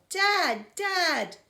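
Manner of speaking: high, loud desperate call; full-voiced, urgent cry to someone trapped; yelling. A narrator's reading. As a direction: yell out for your father. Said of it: "and I yelled".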